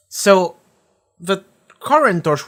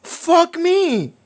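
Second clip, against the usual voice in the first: high, hammed-up exclaim; imitating a panicked character; mock dismay; 3 dB louder than usual. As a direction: squeal it like a cartoon victim. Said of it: "he's like".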